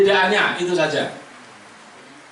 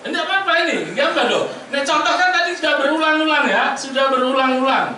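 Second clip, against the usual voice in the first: laughing; 8 semitones higher than usual. Real, not acted. Teacher laughs while coaxing student.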